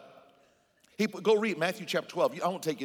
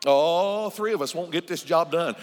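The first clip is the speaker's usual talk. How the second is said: preacher's loud call; 7 dB louder than usual. Real, not acted. Pastor rouses congregation between questions.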